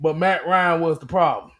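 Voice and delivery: measured, long pause before "but Matt Ryan"; deliberate repeat. Shown as a demonstration. Host making listeners hear the absurd claim, deliberately. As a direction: set out the first half, halt, then drop the punchline. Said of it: "just listen to how that sounded again".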